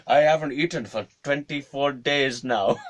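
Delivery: hammed-up old man protesting; complaining old man. Old man complaining in the dining room, aggrieved.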